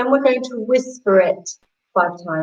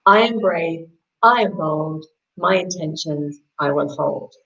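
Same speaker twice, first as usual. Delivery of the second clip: calm mantra; 5 semitones lower than usual. Shown as a demonstration. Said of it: "concentrate on the mantra".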